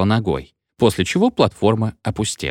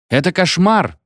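high-pitched protesting exclamation; indignant passengers calling out; outraged cry; 9 semitones higher than usual. A narrator's reading. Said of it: "кричали в окна вагонов".

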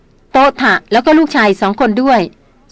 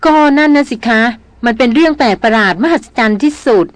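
Darin unsettled by what she saw, speaking with a mild tremble; trembling voice. Acted. Young woman tells her brother of the ghost, a hint of tremble. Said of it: "หล่อนพูดเสียงสั่น".

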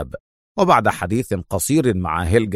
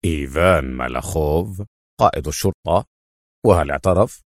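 lower, startled question; surprised; 5 semitones lower than usual. A narrator's reading. General cutting off the officer in disbelief. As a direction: catch the surprise low in the throat. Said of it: "قائلا بدهشة".

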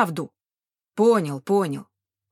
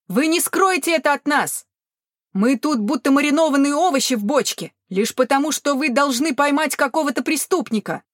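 angry shout; 5 semitones higher, 4 dB louder than usual. A narrator's reading. Angry crowd shouting at guards.

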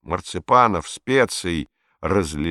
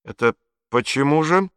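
puzzled; 7 semitones higher than usual. A narrator's reading. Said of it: "озадаченно спросил он".

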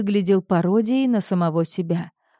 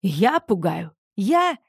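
indignant disbelief; slower than usual. Acted.

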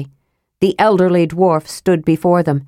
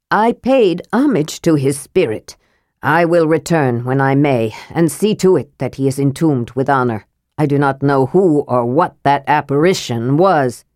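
lower, grave dwarf voice; solemn dwarf; 4 semitones lower than usual. Acted. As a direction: speak like a dignified dwarf lord. Armin the dwarf speaks.

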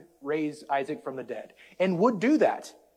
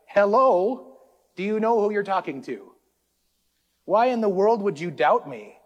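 a hint of an indignant God, higher and louder; God's reply; 5 semitones higher, 5 dB louder than usual. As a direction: voice God as if taken aback at the doubt. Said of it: "And God's like".

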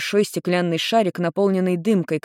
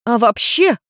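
higher, louder exclamation; sudden outburst; 6 semitones higher, 5 dB louder, slower than usual. Acted. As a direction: burst out at him. Girl bursts out at father.

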